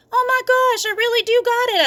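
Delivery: very high, loud squeal of joy; hollered. A narrator's reading. Junie finding the egg under her hand, high squeal. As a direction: holler in disbelief. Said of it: "I hollered".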